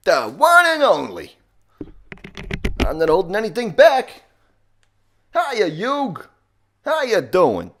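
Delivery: loud, high, strained Brooklyn accent; Joey Wheeler. Shown as a demonstration. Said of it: "bad Brooklyn or Boston accent".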